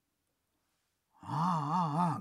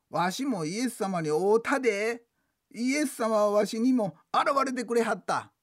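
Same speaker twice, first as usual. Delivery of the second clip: insisting; 5 semitones higher, 4 dB louder than usual. Retold or imitated. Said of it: "と言い張るねんけどな".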